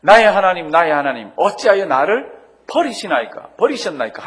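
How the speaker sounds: preacher crying out Christ's words from the cross; anguished cry. Acted. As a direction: shout it out in anguish. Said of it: "고함을 지르면서".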